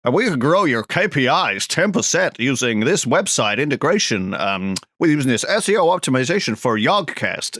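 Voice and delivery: slick corporate sales pitch; businessy marketing voice. Retold or imitated. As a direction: read it like a spammy marketer. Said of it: "where they say".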